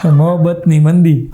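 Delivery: drawn-out punchline with a laugh; slow laughing. Real, not acted. Repeating the wrong film title to the audience, laughing. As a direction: let the title roll out slowly, laughing.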